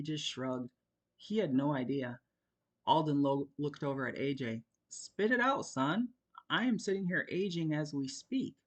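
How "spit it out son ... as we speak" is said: higher, mock impatient; father urges hesitant son; impatient dad. A narrator's reading. A father's mock impatience. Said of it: "Alden declared".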